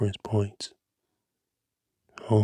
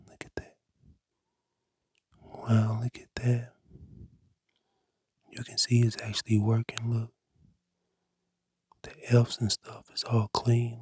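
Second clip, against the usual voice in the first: ASMR whisper. Acted. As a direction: breathe the words like an ASMR cleaning video. Whispered ASMR cleaning tutorial.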